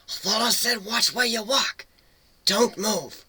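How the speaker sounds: high, sharp cat voice warning; hissing cat. A narrator's reading. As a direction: warn him sharply as the cat. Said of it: "the cat hissed".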